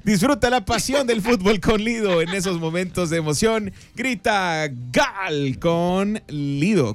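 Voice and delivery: sponsor ad read. Acted. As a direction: stretch the slogan like a radio spot. Reads a sponsor spot.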